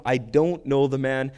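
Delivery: slow, emphatic oath, mildly forceful; sworn denial. Retold or imitated. Peter swearing to them, emphatic denial. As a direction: swear it word by word, leaning on "don't". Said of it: "began to call down curses".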